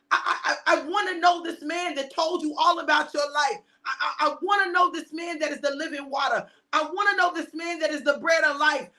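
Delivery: voiced crowd's yearning; longing plea. Voicing seekers' longing cry.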